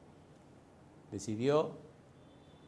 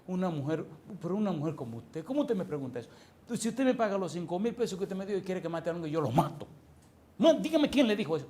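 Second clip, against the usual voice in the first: mock weeping, rising to a high outburst; acted tearful protest; 4 semitones higher than usual. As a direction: imitate a man crying in indignant protest.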